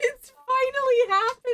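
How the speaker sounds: high, loud squeal of excitement; giddy player cheering the moment; excited outburst. Real, not acted. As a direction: burst out, thrilled, pitch way up. Player thrilled by long-awaited reunion.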